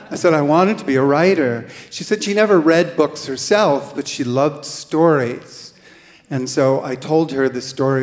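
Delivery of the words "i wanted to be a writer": laughing. Real, not acted. Admitting dream, laughing.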